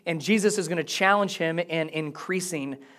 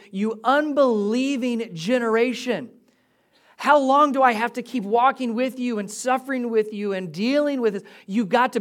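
higher-pitched exasperated rebuke; annoyed; 4 semitones higher than usual. Acted. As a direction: scold them in exasperation. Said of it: "a little sarcastic and annoyed at times".

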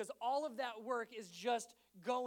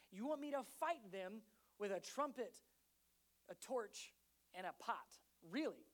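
higher, disbelieving complaint; incredulous soldier; 3 semitones higher, 4 dB louder than usual. Acted. Soldier handed a trumpet, incredulous protest. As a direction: protest you can't believe this.

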